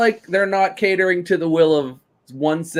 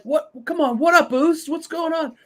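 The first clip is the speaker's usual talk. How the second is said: high-pitched mocking impression of a wrestler; 13 semitones higher than usual. Mocking a stranded wrestler in a high squeaky voice. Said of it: "they were like".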